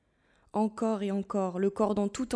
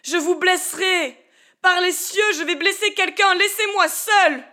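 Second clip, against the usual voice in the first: angry threat; 9 semitones higher, 6 dB louder than usual. Acted. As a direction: threaten them, rising in fury. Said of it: "produisit en lui une bouffée de colère". (menace furieuse, criée et lente)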